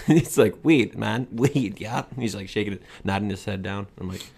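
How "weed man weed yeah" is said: lightly imitated Asian accent; a touch of mock Asian accent. Party guest clarifying his question, light imitated Asian accent. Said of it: "doing Asian accents".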